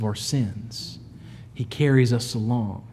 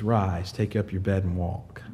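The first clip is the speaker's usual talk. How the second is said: soft command; 8 semitones lower, 8 dB quieter than usual. Retold or imitated. Jesus speaks softly to the man.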